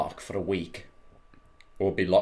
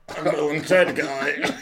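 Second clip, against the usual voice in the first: mock has-been actor; 6 semitones higher, slower than usual. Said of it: "as opposed to just".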